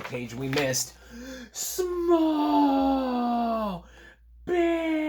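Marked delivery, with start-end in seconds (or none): 1.5-5.0 very high, loud creature shouts; creatures yelling. Acted. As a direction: hurl the words at the other side.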